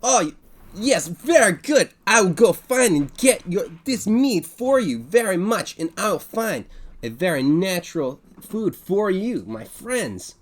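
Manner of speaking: high, loud, beaming innkeeper voice; cheerful bartender. Acted. Bartender waving the adventurers in, high and loud. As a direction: greet the party like an eager barkeep.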